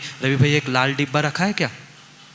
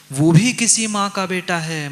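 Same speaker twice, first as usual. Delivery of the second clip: louder higher repeat; 3 semitones higher, 4 dB louder than usual. Shown as a demonstration.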